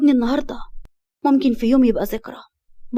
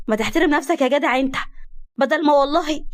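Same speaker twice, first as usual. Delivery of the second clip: sharp threat; 4 semitones higher than usual. Acted. Woman threatening flirt.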